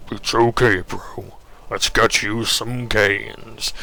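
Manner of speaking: lightly voiced gym bro, slowing down; consoling gym bro. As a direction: reassure your bro, stretching the last words. Butcher consoles Rakanar, drawn-out bro voice.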